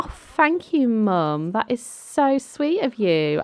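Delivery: high, delighted gratitude; gushing thanks. Acted. Daughter thanking Mum for her car, gushing. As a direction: gush it high, stretching the praise.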